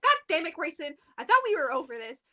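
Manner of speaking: mildly exasperated outburst, retold; mock freak-out, pitched a little up. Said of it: "she's, like, freaking out".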